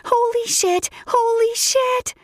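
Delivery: high, slow, joyful holy shit; excited scream. Acted. Narrator screaming at pregnancy news, high and excited. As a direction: shriek it with delight. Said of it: "I screamed again and grabbed my hair".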